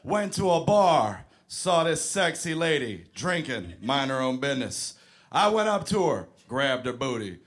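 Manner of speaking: put-on comic voice. Comedian ranting to the crowd about women playing games, put-on voice. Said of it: "I do not talk like that at all".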